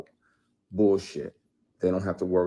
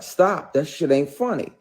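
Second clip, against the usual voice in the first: sharp, louder, higher stop; retold angry warning; 8 semitones higher, 7 dB louder than usual. Warning the actress off, loud angry snap. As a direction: bark the warning at her. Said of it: "I was like".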